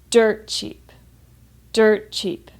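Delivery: "Dirt" stressed on its er sound, "cheap" falling away. Shown as a demonstration. Teacher modelling the phrase, er in "Dirt" stressed. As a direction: lean on the er in "Dirt", as in turtle. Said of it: "there's a stress on the er".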